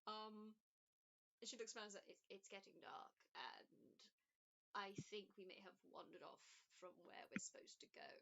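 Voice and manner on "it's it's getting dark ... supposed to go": lightly voiced fussy old lady, a bit softer; a hint of a kindly, unsure old woman; elderly woman. GM voices Elizabeth again.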